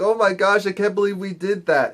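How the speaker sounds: high-pitched mock dismay; bugging out. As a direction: imitate someone freaking out. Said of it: "Asha's bugging out because she's like".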